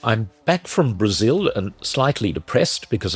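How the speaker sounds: stuffy, muffled head-cold voice. Real, not acted. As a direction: speak muffled, with a slight cold. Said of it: "If I sound a bit muffled".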